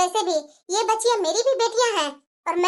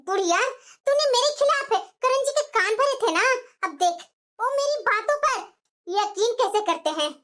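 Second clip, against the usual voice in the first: gloating taunt. Acted. Bahu taunts mother-in-law, laughing.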